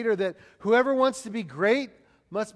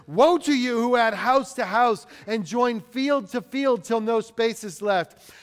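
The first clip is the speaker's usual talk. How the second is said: mildly raised condemning voice; forceful preacher's rendering of a prophet; crying out; 2 semitones higher, 4 dB louder than usual. Acted. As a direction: cry it out as a prophet's warning. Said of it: "he cries out to them".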